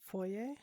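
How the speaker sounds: "Foyer" said foy-ay; "Foyer" as foy-ay, rising; French-style pronunciation. Shown as a demonstration. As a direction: say "Foyer" ending in an AY sound, questioning. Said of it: "say foyer and not foyer".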